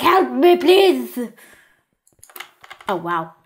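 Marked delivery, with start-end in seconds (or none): 0.0-1.2 mock cry for help; acted, raised plea for rescue; panicked crowd. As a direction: playfully plead like a panicked victim. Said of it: "They're like".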